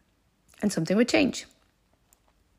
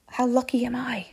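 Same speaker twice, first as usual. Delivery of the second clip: higher, lightly marvelling self-talk; mildly thrilled; 4 semitones higher than usual. Retold or imitated. Traveller alone bound for a hotel, mildly thrilled. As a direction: count your luck with a lift.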